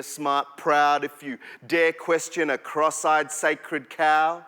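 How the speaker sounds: rhythmic, dramatic poetry performance; spoken word poem. Acted. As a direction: perform it like a slam poem, building and dropping.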